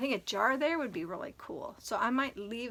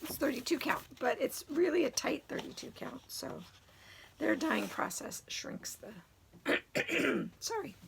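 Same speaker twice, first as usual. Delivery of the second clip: hoarse voice; 4 semitones higher than usual. Real, not acted. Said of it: "My voice went bad really quick".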